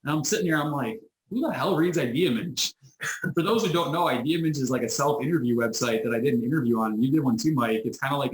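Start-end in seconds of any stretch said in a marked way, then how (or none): 1.3-2.7 incredulous. Retold or imitated. Incredulous thought about the website.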